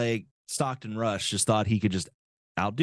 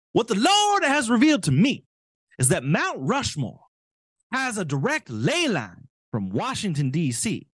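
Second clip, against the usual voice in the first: higher, louder put-on zealot voice; mock zealot voice; 9 semitones higher, 4 dB louder than usual. Host re-reads the politician's quote as he imagines him talking, mock zealot. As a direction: ham up the politician's holy revelation. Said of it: "I just assume this is how he talks".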